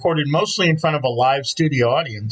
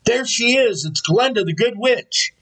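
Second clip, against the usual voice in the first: imitated excited shouting; 8 semitones higher than usual. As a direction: imitate a cast hailing an arrival, without really yelling.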